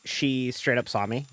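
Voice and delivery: put-on Jersey-Aussie-Southern mash-up accent; hammed-up Jersey-meets-Southern colonel accent; mixed-accent bit. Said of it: "I'm gonna actually talk normal now".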